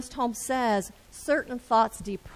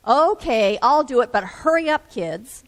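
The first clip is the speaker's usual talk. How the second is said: impatient dad; 8 dB louder than usual. Acted. Husband gives in.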